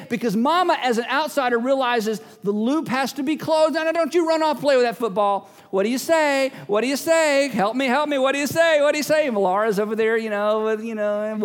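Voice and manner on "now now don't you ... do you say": insistent mom. Acted. Mom prompting child to thank.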